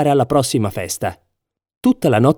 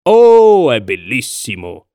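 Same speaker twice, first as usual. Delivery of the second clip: exclaimed aloud; 2 semitones lower, 4 dB louder, much slower than usual. A narrator's reading. Emperor admiring the empty loom, exclaimed aloud. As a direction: cry out in admiration, then settle. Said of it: "disse ad alta voce".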